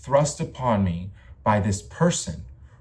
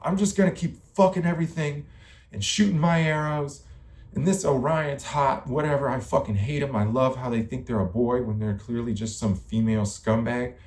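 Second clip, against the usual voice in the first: a hint of a scornful Artemis, pitched up at first; Artemis role; 3 semitones higher than usual. Voicing Artemis ranting about Orion, lightly acted scorn. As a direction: lightly act out an irritated rant. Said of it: "But Artemis is like".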